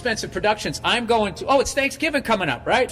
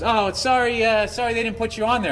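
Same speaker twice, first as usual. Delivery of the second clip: put-on sheepish kid; 8 semitones higher than usual. Kid apologizes, acted quote.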